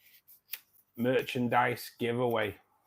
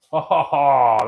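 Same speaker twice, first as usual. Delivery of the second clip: excited; 3 semitones higher, 13 dB louder than usual. Real, not acted. Reacting to a trick shot.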